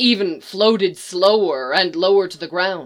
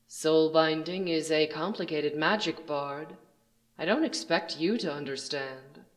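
menacing stranger; 10 dB quieter than usual. Acted. Villain addresses the bard.

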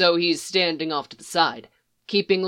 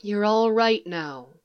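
slow, gentle reassurance; reassuring; 3 semitones higher than usual. Acted. Leia assures the lost girl, slow and gentle. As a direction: soothe the frightened girl slowly. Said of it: "Leia assures her".

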